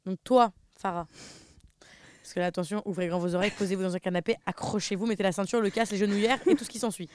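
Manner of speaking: playful show-host buildup; host announcement. Acted. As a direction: hype up the next round like a presenter. Host introducing friend's turn.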